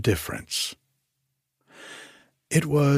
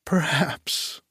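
laughing; 7 semitones higher than usual. A narrator's reading. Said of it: "laughed the little scullery maid".

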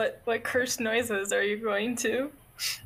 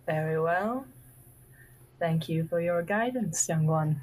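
elder character voice; 5 semitones lower than usual. Pretend. Wise elder character answering.

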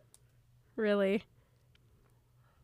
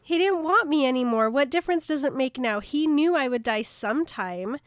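louder, indignant retort in her words; acted hurt protest; 3 semitones higher, 6 dB louder than usual. Co-host voices Bella arguing he left her, hurt protest. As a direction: protest it, wounded and insistent.

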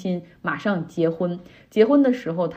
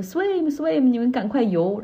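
lightly raised, higher-pitched retold shout; retold call, only mildly raised; mock calling out; 6 semitones higher, slower than usual. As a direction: imitate urging swimmers on, half-shouted. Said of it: "他就对这些人用英语喊说".

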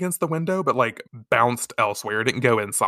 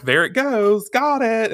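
high game-time calls; light, high sporty chatter; playful calling out; 9 semitones higher, 4 dB louder than usual. Retold or imitated. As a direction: imitate girls cheerily calling the ball. Acted girls calling during volleyball.

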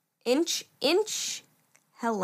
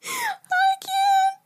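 high squeaky laughing disbelief; 8 semitones higher than usual. Real, not acted. Friend in stitches over the Washington clip. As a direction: barely get words out for laughing.

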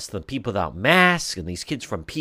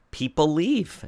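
higher, rising on "leave" as if pressing the point home; rising repeat; 4 semitones higher, slower than usual. Real, not acted. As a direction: lift "People leave." up at the end, insisting. Host repeats point for emphasis.

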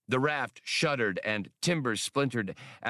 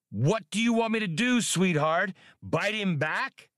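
bellowed; 9 semitones higher than usual. A narrator's reading. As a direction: shout it high over the chaos. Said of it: "Han bellowed".

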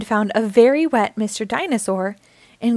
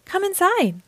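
high, lilting granny call; sing-song grandmotherly welcome; welcoming invitation; 9 semitones higher than usual. A narrator's reading. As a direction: usher the little ones in.

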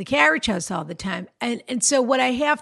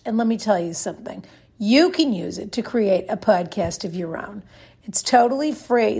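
ad read. Acted. Reads a sponsor ad.

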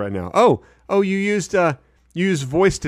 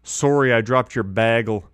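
copying Wisconsin SORE-ee and BAG-ul; imitated Wisconsin accent; 3 semitones lower than usual. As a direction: try out Wisconsin "sorry" and "bagel". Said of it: "a Wisconsin accent".

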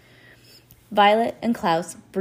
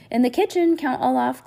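higher, louder call to the next room; 8 semitones higher, 4 dB louder than usual. A narrator's reading. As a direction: call out from the kitchen. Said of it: "Klaus called".

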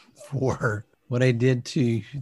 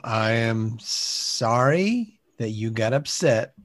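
fake apology. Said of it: "Start over".

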